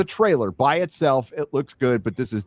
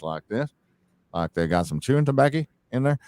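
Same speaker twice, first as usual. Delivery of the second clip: badly faked Texas accent, talking through the teeth; lightly mocked Texas talk, mouth barely moving; terrible Texas accent; 3 semitones higher than usual. Shown as a demonstration. Showing a Brit how Texans talk, terrible Texas accent. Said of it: "I'm doing a terrible Texas accent".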